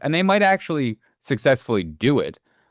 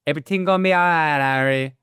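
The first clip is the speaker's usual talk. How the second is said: quick Jamaican lilt, pitched up; Jamaican accent; 4 semitones higher than usual. Retold or imitated. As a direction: Brad Pitt's Jamaican line. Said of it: "Brad Pitt says that line in the Jamaican accent".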